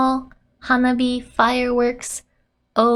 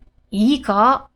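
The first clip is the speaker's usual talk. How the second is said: acted safety lecture in Japanese; mild, emphatic telling-off; scolding; 3 dB louder than usual. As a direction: lay down the rule to a child, firmly. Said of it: "She's getting scolded right now".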